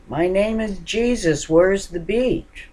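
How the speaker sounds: loud, high shouted question; yelling stranger. Retold or imitated. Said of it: "banging on my door and yelling".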